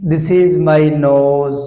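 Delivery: put-on very slow, each word spaced for children; teacher drill for kids, word by word; slow teaching drill. Shown as a demonstration. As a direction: model the sentence slowly for young learners. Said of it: "আমরা this ব্যবহার করে আমরা শেখাতে চাই".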